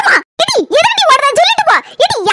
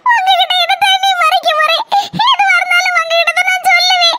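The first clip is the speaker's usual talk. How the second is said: crying; 3 semitones higher than usual. Acted. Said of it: "இங்க பாரு, அழாத நீ".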